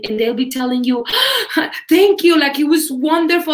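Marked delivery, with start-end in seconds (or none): 1.5-3.5 gasping, higher, overcome student voice; mock-emotional gush after a gasp; imitated tearful thanks. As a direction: act out someone breaking down gratefully. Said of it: "people break down at the end of class".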